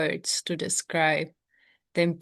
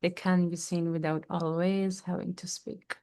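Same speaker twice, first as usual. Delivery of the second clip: softer, hushed repeat of the line; soft echo; 6 dB quieter than usual. Acted. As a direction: let the line fall away quietly.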